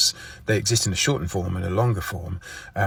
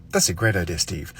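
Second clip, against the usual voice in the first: name said quickly. Shown as a demonstration. Complimenting Steve, name said quickly. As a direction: rattle off "Steve" right after the compliment. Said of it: "say somebody's name as quickly as possible".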